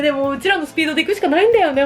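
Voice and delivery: ordinary talk, nothing marked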